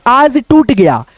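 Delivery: each word read out slowly for the class; slow reading aloud. Shown as a demonstration. Teacher reading a sentence slowly to students. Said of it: "तो यहाँ पे देखो".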